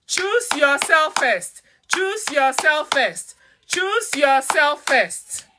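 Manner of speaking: each word slow and weighted, "Choose yourself first" drawn out; slow emphatic repeat. Real, not acted. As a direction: drive the mantra home, word by word. Repeating the core advice.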